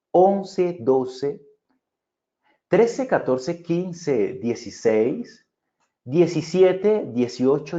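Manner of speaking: slow, deliberate counting with pauses; empowered demo count; paced, paused count. Shown as a demonstration. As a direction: count with pauses and varied pace. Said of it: "Vean cómo ya me estoy empoderando más, acompañándome de velocidad, de pausas".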